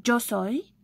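"yo soy" pronounced "djo soy"; demonstrating pronunciation. Shown as a demonstration. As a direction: open "yo soy" on a dj sound. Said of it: "D J O".

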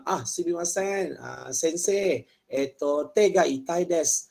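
slow, hesitant patient; a patient explaining pain, slowly; patient role. Shown as a demonstration. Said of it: "kalau jumpa doktor".

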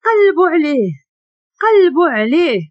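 loud shouted order, pitch up; shouting. A narrator's reading. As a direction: bark the order to search, loud and high. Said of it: "كيغوت".

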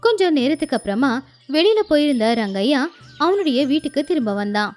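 ordinary delivery, nothing marked

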